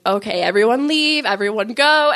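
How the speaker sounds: retold crowd-clearing order. Helper telling the people to leave, calling out. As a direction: call out as if shooing a crowd.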